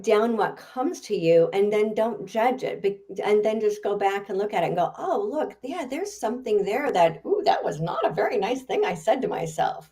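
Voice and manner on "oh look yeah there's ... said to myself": higher, lilting musing to oneself; lightly acted "ooh" of discovery; mock self-discovery. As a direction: act out noticing something in your notes. Acts out rereading one's own notes.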